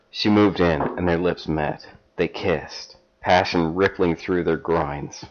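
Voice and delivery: measured storybook reading; story narration. Acted. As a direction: read it like a steamy paperback. Reads erotic fan fiction aloud.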